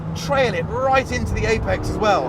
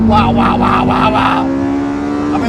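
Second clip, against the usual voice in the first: excited; 5 semitones higher, 8 dB louder, much slower than usual. Real, not acted. Thrilled by throttle kick.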